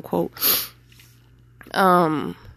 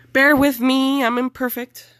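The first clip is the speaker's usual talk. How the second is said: teary laugh; laughing through tears; 5 semitones higher, 4 dB louder than usual. Real, not acted. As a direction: laugh it off gently. Laughing at herself mid-tears.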